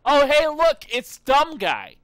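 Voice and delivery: loud, high, mocking taunt. Gamer jeering at a game character, loud mocking taunt. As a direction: jeer at the character, slowing on the insult.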